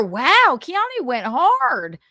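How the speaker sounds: mock-amazed Southern accent, drawn out; stretched-out Southern exclamation. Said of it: "why I did a Southern accent".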